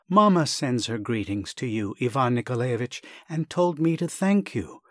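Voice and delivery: earnest son, a little flustered; agitated young man. Acted. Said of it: "said in an agitated voice".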